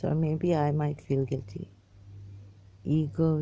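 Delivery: ordinary delivery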